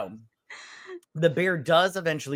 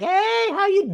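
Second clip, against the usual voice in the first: higher, sing-song hello; mock cheery greeting; 3 dB louder than usual. Family greets the exhausted man, mock cheery hello. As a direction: play the happy-go-lucky family, all sunshine.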